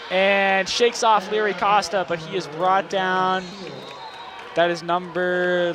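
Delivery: steady play-by-play call, tracking the runner; walk the listeners through each snap as it happens; live play-by-play. Acted. Announcer calling the Bulldogs' drive for the broadcast, measured play-by-play.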